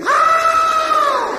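very high shrieked how; a terrified boy's shriek; screaming. Retold or imitated. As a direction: scream it running into the yard. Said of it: "I'm screaming".

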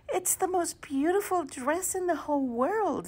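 put-on high, bright child voice; little girl voice. A narrator's reading. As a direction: sound like an excited little girl. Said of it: "said her daughter Irene".

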